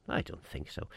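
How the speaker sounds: breathy whispered aside under the breath. Real, not acted. Host's muttered aside after question.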